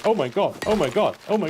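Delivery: high, loud frantic repeated cries; panicking wife. Retold or imitated. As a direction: imitate a wife in a panic, rushing the words. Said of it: "so immediately she's panicking".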